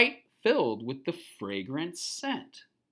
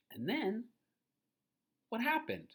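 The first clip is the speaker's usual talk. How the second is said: soft unvoiced teaser; whisper; 5 semitones higher, 9 dB quieter than usual. Real, not acted. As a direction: whisper to build suspense.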